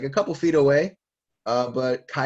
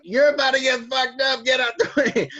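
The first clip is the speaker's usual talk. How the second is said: very high, loud mock shriek; shouted warning; 12 semitones higher, 7 dB louder than usual. Recapper voicing Big Mom telling Kaido to dodge, shouting. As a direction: yell an urgent warning at the top of your voice.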